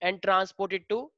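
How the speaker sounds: each word spaced out slowly for writing; slow classroom dictation pace. Shown as a demonstration. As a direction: read it slowly so the class can copy.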